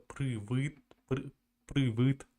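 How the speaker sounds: привет with hard, dark vowels, like "pryvyt"; unfamiliar accented pronunciation. Shown as a demonstration. Russian speaker attempting the other accent, effortful hard-vowelled привет. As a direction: try привет haltingly in the Ukrainian way. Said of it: "it's not usual for me".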